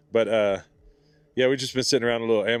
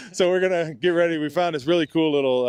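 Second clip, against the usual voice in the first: raised voice outdoors; shouting over wind; 6 semitones higher than usual. Real, not acted. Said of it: "you can hear me over the wind".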